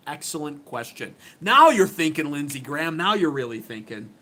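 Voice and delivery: mock congratulation, punching the first NOW; sarcastic praise. Commentator praising a senator's question, sarcastically. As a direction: praise him with tongue in cheek. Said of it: "I say that sarcastically".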